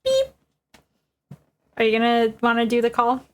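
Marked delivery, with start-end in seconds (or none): 0.0-0.3 imitated beep. Imitating the phone pickup.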